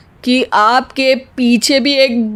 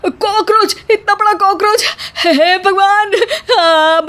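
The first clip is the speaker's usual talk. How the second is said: sudden shout; 6 semitones higher than usual. Acted. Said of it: "अचानक चिल्लाते हुए कहने लगता है".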